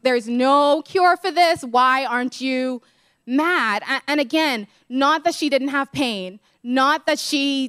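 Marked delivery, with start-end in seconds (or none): 0.0-3.8 mock dramatic despair. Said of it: "I want that response".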